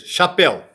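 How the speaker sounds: "chapéu" said as written, ending in "éu"; read as spelt. Shown as a demonstration. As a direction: read "chapéu" by its letters, not in French. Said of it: "pronuncia chapeau".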